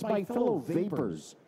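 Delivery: fellow lifted and leaned on in "My fellow vapors."; correct version stressed. Shown as a demonstration.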